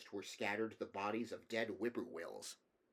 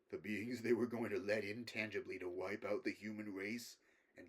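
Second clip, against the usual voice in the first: softer, weighing every word; careful grave scholar; 4 dB quieter than usual. Acted. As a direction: measure each word like a wary professor. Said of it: "chose his words very carefully".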